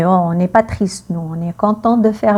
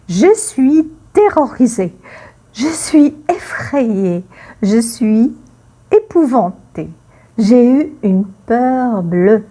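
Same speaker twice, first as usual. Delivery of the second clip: acted fear. Shown as a demonstration. Teacher acting out fear phrases.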